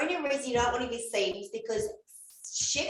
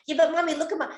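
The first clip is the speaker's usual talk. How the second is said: put-on insistent child; 6 semitones higher, 5 dB louder, much faster than usual. Child insisting in acted scene.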